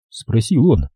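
plain reading voice

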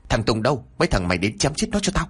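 villain summons henchmen to kill, quick and harsh; barked order. Acted.

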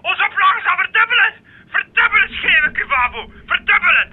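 gleeful shout. Acted. Editor crowing to Klaas about sales, gleeful. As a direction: crow about doubled sales.

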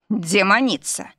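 slow, mildly astonished gasp. Acted. Husband amazed at his bride, a mild gasp. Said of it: "ахнул он".

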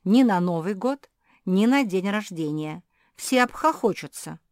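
curt retort. Acted. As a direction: snap back dismissively. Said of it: "отрезала Зефирка".

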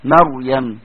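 مريم with a heavy ر from the back of the tongue; heavy Raa. Shown as a demonstration. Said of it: "ظهر اللسان،".

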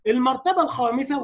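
ordinary delivery

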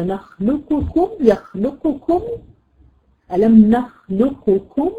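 نخلقكم slowly with qaf then kaf both heard; without merging. Shown as a demonstration. Teacher shows the first permitted way to her students. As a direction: say نخلقكم keeping the qaf separate. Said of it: "يا إما تقولي".

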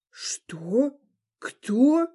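a lightly voiced roar of disbelief; рёв. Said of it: "взревел Гамаль". (слегка взревел)

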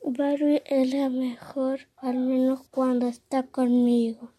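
soft hushed whisper. Acted. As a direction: breathe it out secretly. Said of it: "Entonces susurra".

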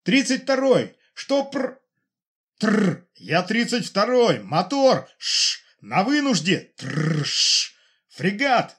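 high, loud radio cries broken by crackle and whistles; shouting through static. Acted. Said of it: "Колонка захлёбывалась криками". (крики в рации сквозь треск и свист помех)

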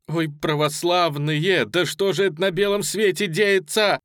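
high, loud lament; despairing outcry. A narrator's reading. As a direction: cry out to the crowd. Refugee women crying out on pier. (громкий плач-причитание)

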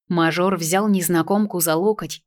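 ordinary delivery, nothing marked

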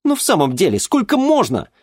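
very high, loud pleading cry; exasperated daughter. Acted. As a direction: burst out in exasperation.

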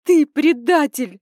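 high, loud, slow accusation; furious shout. Acted. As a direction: hurl the word at him. Yelling at father.

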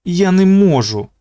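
high, frightened cry; panicked plea. Acted. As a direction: plead in panic. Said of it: "намагався не панікувати".

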